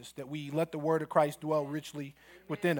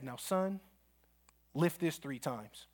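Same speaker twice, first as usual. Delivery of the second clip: softer, slow and deliberate coach; quiet challenge; 6 dB quieter, slower than usual. Retold or imitated. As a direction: lay down the dare calmly and slowly.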